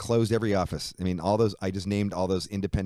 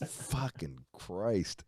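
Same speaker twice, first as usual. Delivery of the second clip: slow, softer exasperated curse; weary exasperation; 7 dB quieter, much slower than usual. Retold or imitated. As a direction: drag it out, worn down. Exasperated reaction.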